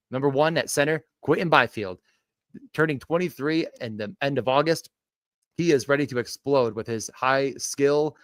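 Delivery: upbeat punchy sports pitch; hype video pitch. Acted. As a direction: sell it like a YouTube short. Second take of the pitch.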